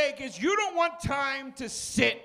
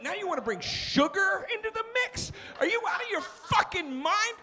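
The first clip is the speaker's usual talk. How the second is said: rising, higher incredulous rant; mock outrage; 4 semitones higher than usual. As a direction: rant at the worker in mock disbelief. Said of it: "I go".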